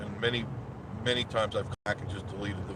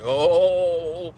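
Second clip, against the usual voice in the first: surprised high "oh"; 7 semitones higher, 9 dB louder than usual. Real, not acted. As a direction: react with sudden surprise. Sees news van, surprised.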